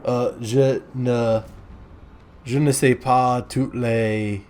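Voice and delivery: joking, slow, hammed-up French accent; a silly put-on French accent with broken phrases; mock French accent. Clowning for viewers in a mild mock French accent. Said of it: "speaking in a French accent".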